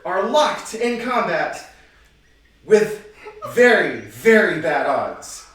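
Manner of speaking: slow, punchy host narration; game show host. Acted. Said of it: "You sound like a game show host".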